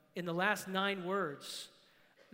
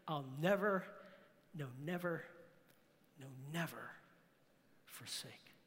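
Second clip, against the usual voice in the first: growing lower and softer with every "never", down to near silence; solemn fading recital; 6 semitones lower, 6 dB quieter than usual. Acted. Preacher reciting a hymn's promise to the church, solemnly fading. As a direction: let each phrase sink quieter, pausing between.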